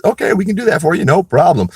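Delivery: high, sugary mock-helpful clerk voice; mock court clerk. Mocking the court clerk's offer.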